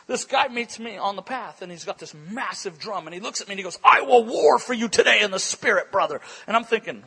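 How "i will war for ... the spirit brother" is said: lightly voiced warrior's declaration, a bit loud; mock zealous warrior. Warrior with a drum pledges to preacher, mock zeal. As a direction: imitate an over-earnest prayer warrior.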